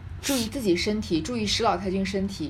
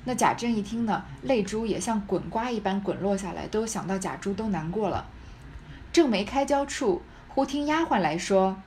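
measured, expressive storytelling read; deliberate literary narration; story narration. A narrator's reading. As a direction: read it out like a classic novel. Reads the novel aloud.

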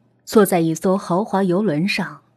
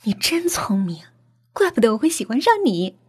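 flirty praise; 3 semitones higher, 3 dB quieter than usual. Acted. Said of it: "笑着说".

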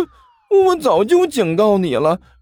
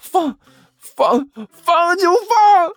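very high, stuttering yell; high-pitched defiant holler; big roar; 3 dB louder, much slower than usual. Acted. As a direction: build to a squeaky, drawn-out battle cry. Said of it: "刘阿八大吼了一声".

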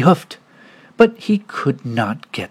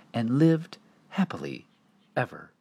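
fading whisper; 4 semitones lower, 10 dB quieter than usual. A narrator's reading. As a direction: trail off to a whisper. Story ending fades to whisper.

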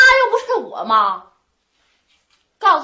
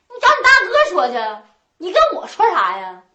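angry retort; 3 semitones higher than usual. Acted. Sister-in-law pushes blame back.

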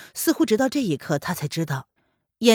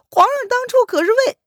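cut off mid word; 8 dB louder than usual. Acted. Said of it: "叶安见凌渊冷若冰霜的样子".

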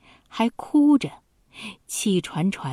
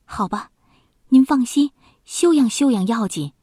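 sure, soothing promise with a lift on 您放心; confident reassurance; 5 semitones higher, 4 dB louder than usual. A narrator's reading. Maid comforts the dying duke, confident reassurance. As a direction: sound certain to calm the sick man. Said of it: "就显出挺有把握似的口气说".

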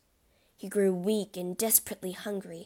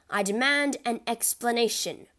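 angry demand; 3 semitones higher, 5 dB louder than usual. Acted. Albert confronts the Count.

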